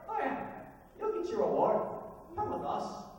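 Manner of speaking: high little fairy voice; small, high-pitched creature voice; little people. Acted. Little people lead Grumplebuffin to his reward, high voice.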